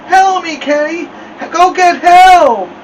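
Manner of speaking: loud, high, drawn-out panicked cries; muffled, desperate high yelling; mouth stuck shut. A narrator's reading. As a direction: beg for help with a stuck mouth. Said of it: "like he had something in his mouth".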